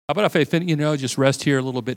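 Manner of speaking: half-joking plea to stay put; pleading bargain. Retold or imitated. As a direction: coax God into letting you rest. Bargaining with God.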